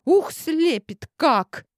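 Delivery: high, slow and dazzled. Acted. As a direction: squint into the sun. Blinded by the sun.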